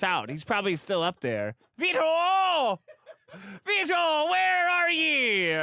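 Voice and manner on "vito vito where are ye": calling out. Acted. Calling out for Vito.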